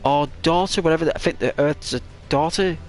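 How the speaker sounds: high-pitched, fretting sun voice; high sun complaining to her daughter; frustrated sun. Acted. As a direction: whine it like a helpless parent. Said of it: "She's like".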